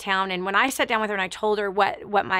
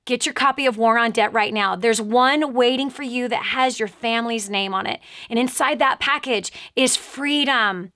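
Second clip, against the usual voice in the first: ad read; 3 dB louder than usual. Acted. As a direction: sell it to the listener, urgent and earnest. Reads a charity and product ad.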